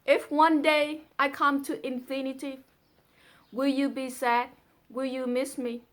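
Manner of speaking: earnest, measured poem recital; poem reading. Acted. Daughter reading her father's poem, earnest recital. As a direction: read the love poem with feeling.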